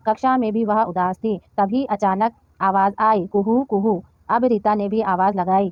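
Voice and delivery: measured, slightly slow read-aloud; lightly performed textbook story reading; reading to children. A narrator's reading. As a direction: read it out phrase by phrase for young learners.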